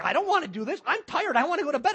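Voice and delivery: mock whine, pitch swinging up high; whining. Tired husband balking at going out at night, whining. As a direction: complain like a tired, reluctant husband. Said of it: "The guy whined about it".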